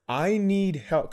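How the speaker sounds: slow, high confession; pleading. Retold or imitated. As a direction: beg for help, drawing it out. Retold plea to the stranger.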